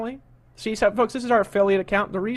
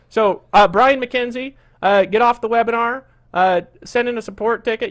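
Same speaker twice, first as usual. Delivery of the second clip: louder, sharp order to leave; irritated dismissal; 3 semitones higher, 6 dB louder than usual. Real, not acted. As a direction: send the heckler away. Host kicks out complaining attendee.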